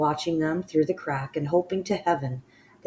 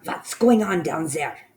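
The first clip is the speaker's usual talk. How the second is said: shouted; 2 semitones higher, 5 dB louder than usual. Acted. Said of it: "shouted the Grand High Witch".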